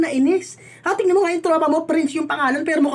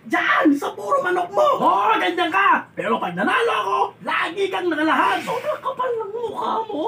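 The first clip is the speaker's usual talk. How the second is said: tearful shouted confrontation; 2 semitones higher than usual. Acted. Tearful shouted fight over gambling.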